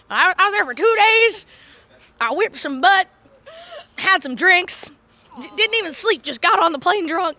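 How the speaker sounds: put-on high, loud old-lady yarn with pauses; hammed-up granny telling war stories; old woman. Wrestler as her older self recalling Japan, old-woman accent. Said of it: "I have this accent all of a sudden as an old woman".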